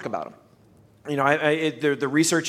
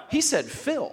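excited; 8 semitones higher, 3 dB quieter, slower than usual. Retold or imitated. Excited fanboy reaction retold.

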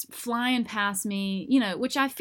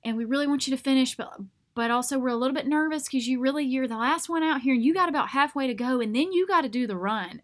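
lightly voiced kindly race helper, pitched up; a touch of sweet concern, slightly higher; sweet, concerned man; 4 semitones higher than usual. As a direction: gently encourage a struggling straggler. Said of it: "he's being so sweet".

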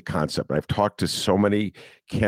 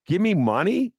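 high pleading ask for money; mock begging; 13 semitones higher than usual. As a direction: beg it out like a desperate candidate. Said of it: "but to ask somebody for money".

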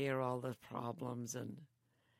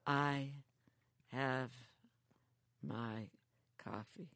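imitating Bob; slower than usual. Mimicking Bob slowly.

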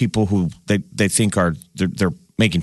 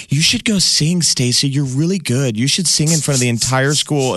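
lightly put-on high mean-girl voice; 4 semitones higher than usual. Radio host egging on Stacey as a mean girl, mock-sweet high voice. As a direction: fake encouragement, pitched up. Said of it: "It was a show of being like mean girls".

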